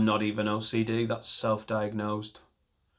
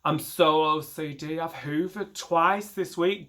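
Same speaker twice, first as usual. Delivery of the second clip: slow, higher, smug brag; mock boaster; 3 semitones higher, slower than usual. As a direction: preen over hoovering. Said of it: "mock OCD boaster".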